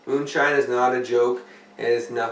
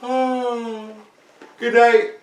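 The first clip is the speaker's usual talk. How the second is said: high squeal; 11 semitones higher, 7 dB louder, much slower than usual. Pretend. High exclaim.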